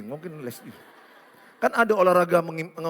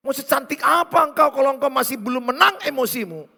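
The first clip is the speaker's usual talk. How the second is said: ordinary delivery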